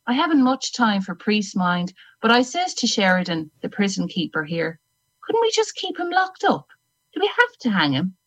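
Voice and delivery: Irish lilt, dry storyteller; Irish accent. Acted. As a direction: tell it in a wry Irish lilt. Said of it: "needed that Irishness".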